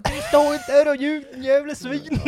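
put-on the old woman bystander yells at the lying taxi driver; old hag yelling. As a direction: bark at him like a furious old woman. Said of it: "det stod och skällde".

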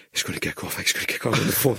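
hushed breathless reenactment; out of breath. Retold or imitated. Interviewee on the phone after a pub fight, out of breath. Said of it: "I'm out of breath 'cause I'm like".

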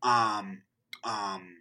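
put-on grumpy old prospector in a Boston accent. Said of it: "Boston's hard".

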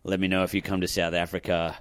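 put-on subdued, quiet take on a South African accent. Fan's voice message to a comedian, imitated South African accent. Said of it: "It's this South African guy".

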